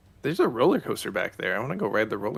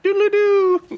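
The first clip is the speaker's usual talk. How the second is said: high, loud playful yell; 12 dB louder, much slower than usual. Pretend. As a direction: yell it out like a rooster call. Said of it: "obligated to yell".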